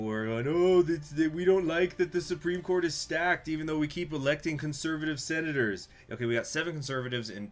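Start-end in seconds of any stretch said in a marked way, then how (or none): 0.5-5.9 higher-pitched mock whining; hammed-up complaint of the public; mock complaining. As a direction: imitate people griping, voice raised. Mimics people complaining about the court.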